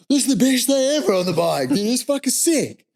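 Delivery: excited riders reliving tailwind; thrilled. Retold or imitated. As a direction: cheer like the best ride of your life.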